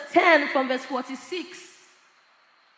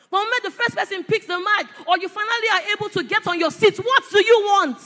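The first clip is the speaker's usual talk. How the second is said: raised, driving preacher's voice ending loud; building exhortation; 4 semitones higher, 4 dB louder, faster than usual. Real, not acted. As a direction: build quickly to a loud, challenging question.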